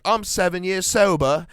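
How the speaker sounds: lightly put-on sober boast; Russell Brand. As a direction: imitate him announcing it proudly. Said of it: "Russell Brand's like".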